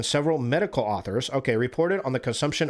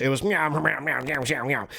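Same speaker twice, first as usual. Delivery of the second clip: mock mumbled meowing. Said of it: "And that was English".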